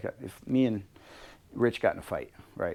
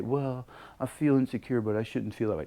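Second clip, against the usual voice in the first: the wrong way. Shown as a demonstration. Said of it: "Don't say".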